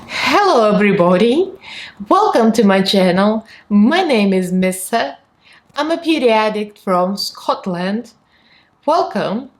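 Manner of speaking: a lightly done Scottish intro greeting; Scottish accent. Pretend. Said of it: "your intro with a little bit of Scottish accent".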